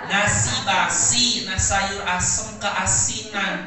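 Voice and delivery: slow sing-song. Shown as a demonstration. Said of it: "Sama nggak artinya?".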